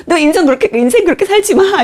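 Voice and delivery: harsh scolding. Retold or imitated. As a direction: lecture her about her life, harshly. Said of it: "이렇게 얘기를 하는 거예요". (친구가 쏘아붙이듯 높게 꾸짖는 말투)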